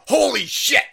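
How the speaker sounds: high, loud mock shock; mock panic. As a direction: blurt it like caught red-handed. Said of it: "they were like".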